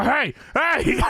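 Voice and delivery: J R. Retold or imitated. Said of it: "And J R go".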